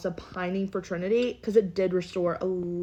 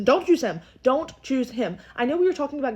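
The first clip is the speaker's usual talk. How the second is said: raised, louder mock plea; emphatic plea; 5 semitones higher, 4 dB louder than usual. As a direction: plead as if she could hear you. Pleads with absent Anaya about Casey.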